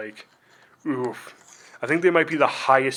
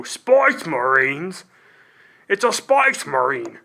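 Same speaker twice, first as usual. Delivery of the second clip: slow, louder, drawn-out orc bellow; orc warrior voice; 4 dB louder, slower than usual. Acted. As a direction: bellow it slowly like a hulking Warhammer orc. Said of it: "I can go".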